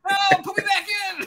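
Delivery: high squeaky shouted protest; baby begging to go back; newborn voice. Pretend. Playing the newborn.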